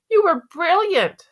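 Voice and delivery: high, drawn-out gushing; excited praise. A narrator's reading. Dad to Via after the play, excited praise. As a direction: praise her with delight.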